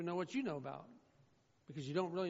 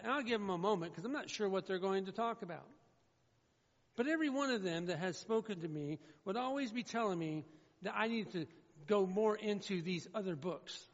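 ordinary talk, nothing marked

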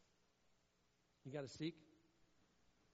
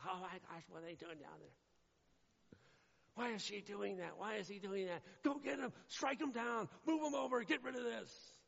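hammed-up anxious overseer; panicky mock God; 6 semitones higher than usual. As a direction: play a stressed-out God barking orders. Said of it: "God doesn't stress out".

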